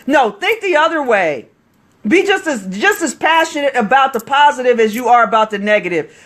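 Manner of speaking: worked-up, passionate insistence; really excited. Real, not acted. Coach telling viewers to flip negative thinking, really excited. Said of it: "I'm getting really excited here".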